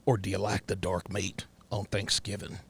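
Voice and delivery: polite Southern date, lightly put on; a hint of folksy Southern courtship; white guy from Mississippi. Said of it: "let's say I was a white guy".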